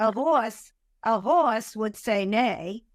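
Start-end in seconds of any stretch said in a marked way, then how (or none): 0.0-1.8 "horse" as an emphatic "hawse"; Boston "horse". Shown as a demonstration. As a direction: stretch "horse" with a rounded vowel, no R. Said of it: "I grew up, it was a horse".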